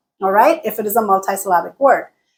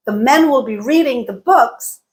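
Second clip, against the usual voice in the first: MEN, READING, BOOKS stressed, the small words squeezed; squished between stresses. Shown as a demonstration. Teacher showing stress timing, small words squished. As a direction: punch MEN, READING and BOOKS, rush "will be" and "the". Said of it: "everything else in between has to be squished".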